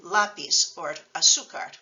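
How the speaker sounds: lápiz on LÁ, azúcar on ZÚ; irregular stress. Shown as a demonstration. Teacher giving irregular examples, next-to-last stress. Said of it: "doesn't fall on the last syllable".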